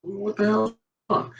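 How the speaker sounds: high, laughing bewilderment. Retold or imitated. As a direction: laugh out the question. Retold bewildered cry, laughing.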